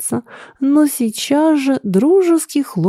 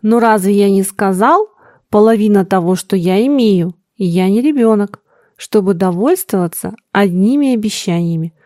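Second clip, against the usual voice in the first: irritated. Acted. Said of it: "раздражительно процедил сын".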